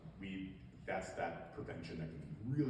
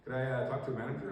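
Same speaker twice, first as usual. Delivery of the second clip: hammed-up Midwest accent, higher; 3 semitones higher, 3 dB louder than usual. Officer asking about a pond plant, in a put-on Midwest accent. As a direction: put on your best folksy Midwest accent. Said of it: "Midwest accent".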